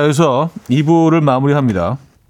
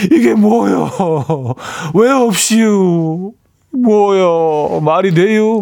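mock Chungcheong child; 6 semitones higher, much slower than usual. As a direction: imitate a Chungcheong kid protesting, stretching the vowels. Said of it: "막 이러면서". (높고 늘어지는 충청도 아이 말투 흉내)

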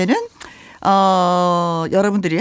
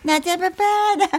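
teasing lover; 9 semitones higher, slower than usual. Retold or imitated. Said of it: "repeat of quote".

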